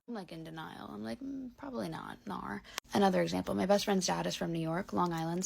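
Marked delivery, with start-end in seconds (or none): 1.2-2.6 put-on Kiwi accent. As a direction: slip quietly into New Zealand vowels. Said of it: "Like a Kiwi vibe".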